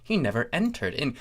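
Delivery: usual speaking voice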